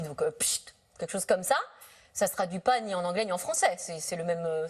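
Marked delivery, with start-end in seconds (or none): 0.3-0.8 a soft, low psht like an umbrella snapping open; umbrella pop sound. Shown as a demonstration. Host to author, imitating an umbrella opening: soft psht. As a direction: mimic the hiss of an opening umbrella. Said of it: "le son que fait, l'ouverture d'un parapluie".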